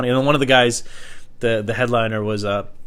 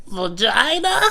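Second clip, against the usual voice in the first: confused blurt; 11 semitones higher, much slower than usual. Retold or imitated. Spacing out at a question.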